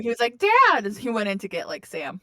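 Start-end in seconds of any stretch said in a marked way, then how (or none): 0.4-0.8 high shout for dad. Retold or imitated. Child in the fire yelling for his dad. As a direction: call out for dad in panic.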